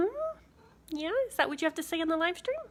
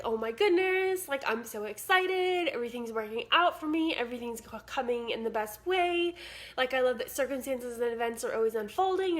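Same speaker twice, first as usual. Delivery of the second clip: excited affirmation. Retold or imitated. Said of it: "walk around the house and be like".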